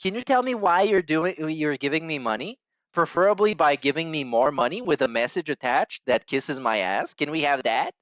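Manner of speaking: mock needy fishing for praise, with lifts in pitch; fishing for compliments. Commentator mimicking a streamer asking for money, mock fishing for compliments. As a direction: put on a hint of coy begging. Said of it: "we're just fishing for compliments".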